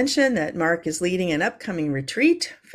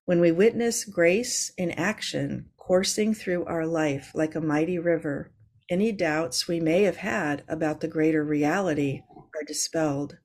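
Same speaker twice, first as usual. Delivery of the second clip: contemplative reading. Acted. Reads a contemplative quote.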